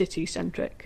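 a lightly done, self-mocking Manchester accent; half-hearted stab at a Manchester vowel; bad Manchester accent. Shown as a demonstration. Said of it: "doing a bad Manchester accent there".

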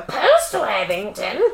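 put-on Cockney accent. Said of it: "This is all Cockney voice".

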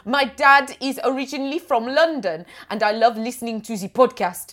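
badly faked German accent drifting into French; French-sounding German accent. Reading a listener's card aloud, failed German accent gone French. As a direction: try German, land on comic French accent. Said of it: "Why are you going French?".

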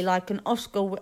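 talking through a bite of apple; words round a mouthful of apple; mouth full. Real, not acted. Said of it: "sorry, I'm eating an apple".

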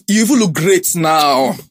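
emphatic compliment. Real, not acted. Host insisting on a compliment.

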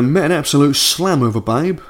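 light Cockney accent, read aloud; reading the letter in Cockney. Shown as a demonstration. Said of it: "should this be in a Cockney accent".

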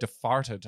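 Departed said slowly as "De-farted"; quoted mispronunciation. Retold or imitated. Trying to discuss films, Departed indignantly quoted as "De-farted". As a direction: throw Departed back with an f for the p. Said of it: "and you're saying Departed".

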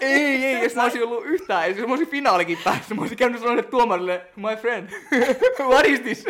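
loud, high plea broken up by laughter; laughing rant. Real, not acted. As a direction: crack up while acting out a desperate protest. Laughing through imagined plea to judge.

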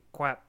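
"Quack" said like "kwap"; tiny toddler mispronunciation. Retold or imitated. Dad mimics daughter echoing his swear, "Quack" as "kwap". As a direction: end "Quack" on a p sound. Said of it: "tiny little voice behind me".

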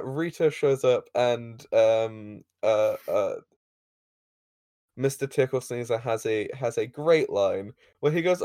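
normal talking voice

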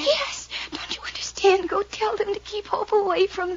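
frantic hushed plea; a frightened girl pleading to save her sister; urgent whisper. Acted. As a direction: beg him in a whisper to go now.

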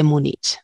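"Múnich" ending in a Spanish ch. Real, not acted. Linguist defending her pronunciation, "Múnich" with final ch. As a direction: say "Múnich" with ch as in chico. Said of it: "digo Múnich con che".

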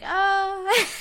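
high mock sympathetic oh; imitating Britt. Britt hearing Jamie will leave, flat fake sympathy. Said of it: "she's like".

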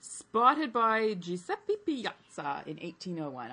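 slow, hammed-up Italian accent on the name. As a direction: lean into an Italian accent, slowly. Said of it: "I can't do an Italian accent".

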